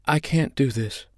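high, held-back panicky plea; panicked, not yet loud. A narrator's reading. Holly panics in the straps, subdued protest. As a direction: protest anxiously without raising the volume. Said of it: "then repeated it loudly".

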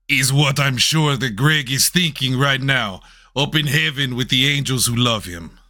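lightly hammed-up, bad Mexican accent; terrible Mexican accent. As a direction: do a clumsy mock Mexican accent. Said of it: "meant to be a terrible Mexican accent".

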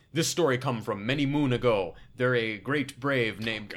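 slow, hammed-up F Troop Native storyteller accent; mock F Troop Native accent. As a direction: parody Chevy's campfire tale in a mock F Troop Native accent, slowly. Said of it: "I feel uncomfortable with you even doing it".

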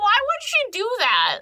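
very high, incredulous mom imitation; hammed-up, high-pitched retort; mock disbelief. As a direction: wail it as a doubting mother. Acted mom's disbelieving reply.

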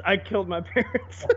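chuckling while saying it; breaking into a laugh mid-line; laughing through it. Pretend. Friend jokes about a Skyrim hero, laughing. Mocking game dialogue, laughing.

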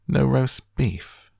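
high, loud, slow villain's indignation; outraged disbelief. A narrator's reading. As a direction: draw it out in affronted disbelief. Villain outraged at missing dinner.

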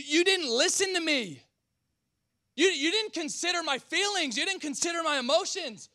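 high, whiny wounded voice; offended person. Acted. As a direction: play the hurt, self-pitying complainer. Voicing an offended angry person.

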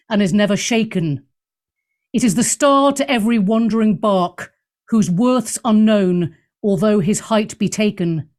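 a hint of a stately Shakespearean reading, often slowed. Host reading a sonnet for Valentine's Day, mildly theatrical. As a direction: recite the sonnet like a light theatrical bard. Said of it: "do it in my best Shakespeare voice".

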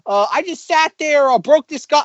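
a goofy, high-voiced oaf; imagined Chris Pratt. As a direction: bound in like a dopey husband with news. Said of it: "being like".

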